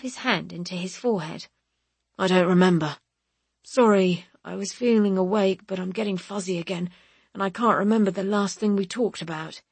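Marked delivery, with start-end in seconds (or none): 2.2-9.6 sleepy and confused after a seizure; Percy, groggy. Acted.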